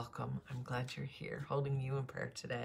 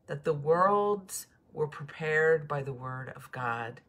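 solemn scripture read aloud. Acted. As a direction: read the verses as holy words.

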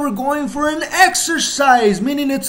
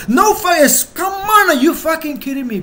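emotional outburst; 4 semitones higher than usual. Real, not acted. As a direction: blurt it out in disbelief, fast at the end. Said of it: "I might be being emotional right now".

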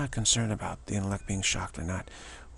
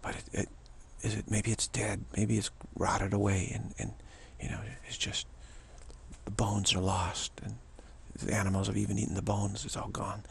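soft, fading lament; 5 dB quieter than usual. Retold or imitated. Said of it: "like an ancient memory".

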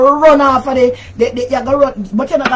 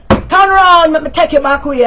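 imitated man's line; 3 semitones higher, 3 dB louder than usual. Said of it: "like when a man say to a woman".

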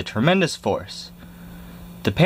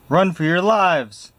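much higher, slow, panicked cry; panicked scream; 8 semitones higher, slower than usual. Acted. The mouse soldiers fleeing the dog, in panic. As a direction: wail it like terrified mice fleeing. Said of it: "screamed the soldiers".

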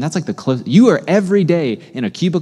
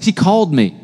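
louder, punchier, with more flair; with more pizzazz; 5 semitones higher, 4 dB louder than usual. Shown as a demonstration. Preacher urging the congregation to repeat it, with pizzazz. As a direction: give it real pizzazz this time. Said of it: "With a little more pizzazz".

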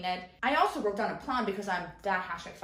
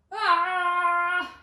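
startled cry; 8 semitones higher, 7 dB louder than usual. Real, not acted. Something falls at the shelf.

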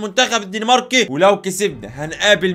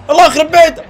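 exasperated laughing; 7 semitones higher than usual. Real, not acted.

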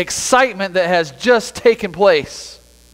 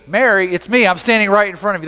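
gently insistent. Acted. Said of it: "That's gotta be the tone in his voice".

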